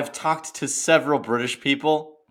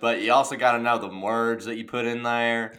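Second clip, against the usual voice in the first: hammed-up country twang. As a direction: lay on a folksy country accent. Bantering in country drawl.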